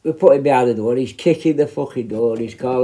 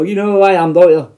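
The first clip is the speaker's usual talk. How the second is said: mock menacing; 6 semitones higher, 7 dB louder than usual. Shown as a demonstration. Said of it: "I didn't mean it like".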